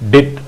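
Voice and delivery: dit said short and crisp. Shown as a demonstration. Morse teacher demonstrating a single dit. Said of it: "you have to pronounce dit".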